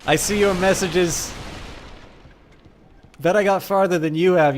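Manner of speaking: loud, high-pitched taunt; screaming at someone. Real, not acted. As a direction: yell back at a heckling texter. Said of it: "why I'm screaming at".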